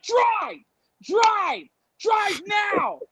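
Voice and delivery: high-pitched frantic getaway order; urgent mock command. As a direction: cry it out, desperate to get moving. Urgent orders to cab driver.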